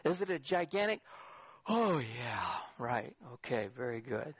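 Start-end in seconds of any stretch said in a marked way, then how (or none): 1.7-4.3 low, trailing offhand agreement; unimpressed acknowledgement. Acted. Preacher mimicking a listener's response to doctrine, offhand. Imagined lukewarm response to a teaching.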